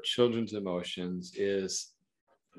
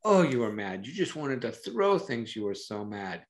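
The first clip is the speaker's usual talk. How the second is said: empathetic reflecting; 4 semitones higher than usual. Shown as a demonstration. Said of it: "to really reflect the emotions".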